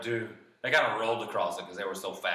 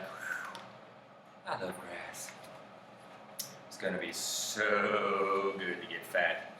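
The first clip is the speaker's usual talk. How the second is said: soft, lower goat musing; contented goat; 3 semitones lower, 5 dB quieter than usual. Acted. Second goat alone with the grass, softly contented. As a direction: sigh it out softly, mildly dreamy.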